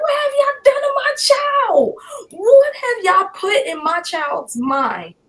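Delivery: anguished shout at a very high pitch; retold scream. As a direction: cry out loudly, reliving the outrage. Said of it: "I'm just screaming".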